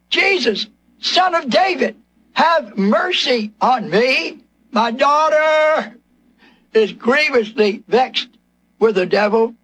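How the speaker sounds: slow, preacher-acted cry for mercy; imitated desperate plea. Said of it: "A woman crying out in such desperate".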